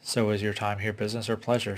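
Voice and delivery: "pleasure" given a little extra weight, said knowingly; a hint of emphasis on "pleasure", teasing; light stress on the last word. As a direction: lean just a touch on "pleasure" to make it flirty. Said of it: "putting just enough emphasis on the last word".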